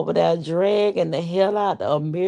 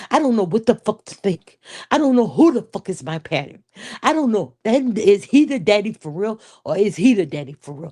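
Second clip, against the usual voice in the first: lightly acted wronged daughter confronting mother; a touch of soap-opera hurt and accusation; hurt, confrontational daughter. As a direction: play an aggrieved daughter's melodramatic monologue. Acts out an improvised monologue.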